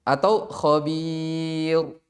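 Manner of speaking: khabir with a thick, heavy R, said very slowly. Shown as a demonstration. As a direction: contrast with a heavy R. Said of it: "Coba antum tebak ini".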